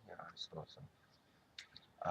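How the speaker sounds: slow, soft whispered mumble as the dog; sleepy mock dog voice; reluctant dog reply. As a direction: drag it out like a dog who'd rather stay. Dog answers owner, acted reply.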